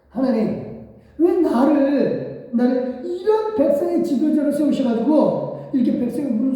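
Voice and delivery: exasperated sighing plea; Moses lamenting. Acted. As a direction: plead in frustration to God. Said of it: "모세도 탄식을 하는 거예요".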